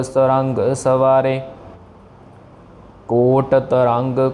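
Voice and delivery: slow measured verse reading; slow recitation. Shown as a demonstration. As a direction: recite slowly, each word apart. (धीमा पाठ)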